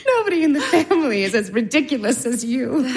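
laughing through the words; high, laughing teasing of a sister. Acted. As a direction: tease her, laughing. Olga laughing at Masha.

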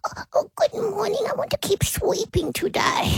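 dog's voice. Pretend. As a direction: voice the small dog, softly. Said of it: "he would maybe say".

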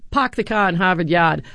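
a light mocking Boston accent. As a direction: tease out "Pak the Khan" in a Boston accent. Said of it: "how thick that guy's Boston accent".

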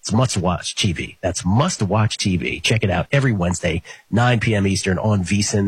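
upbeat promo read; network promo voice. Acted. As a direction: sell the show like a network promo. Sports betting promo read.

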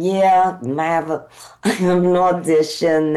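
put-on trying out a New York accent; New York accent, testing it. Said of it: "I'm talking like this".

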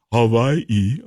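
Hawaii drawn out as "Havaii"; slow Hawaii with a V for the W; V pronunciation. Shown as a demonstration. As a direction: say Hawaii with a playful V. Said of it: "How do you pronounce that?".

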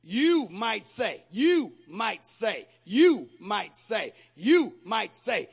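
slow, stretched repetition of "you might say"; drawn-out preaching refrain. Acted. Preacher to congregation, slow emphatic refrain. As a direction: let each "you might say" ring out slowly.

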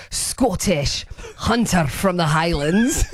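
a light Scottish lilt on hunter from the Highlands, slowed; teasing hint of a Scottish accent. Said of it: "Great accent".

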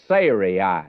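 slow, careful Sarai ending in "eye"; correct pronunciation. Shown as a demonstration. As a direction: draw out Sarai syllable by syllable, "SAY-ree-eye". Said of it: "would be the correct pronunciation".

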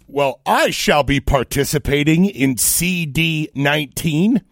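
slow, over-formal delivery; mock stilted voter. Host parodying an unnatural voter, mock-formal voice. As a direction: measure each word out with mock formality. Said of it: "no normal voter that is like".

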